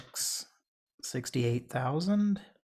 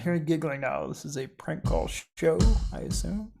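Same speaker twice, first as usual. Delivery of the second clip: lightly mimicked phone operator, a bit quicker; imitated call taker; 4 semitones higher, faster than usual. Host shows what the prank call target should say, lightly imitating him. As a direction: mimic the man on the line, rising at the end. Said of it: "We need to get him to say "show".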